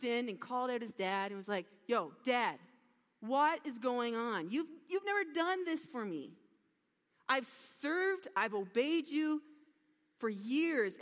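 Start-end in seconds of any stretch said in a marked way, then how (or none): 1.9-11.0 mild angry complaint; a touch of resentful protest, not once stressed; furious. Retold or imitated. Older brother protests to his father, mildly angry. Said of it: "And he was furious".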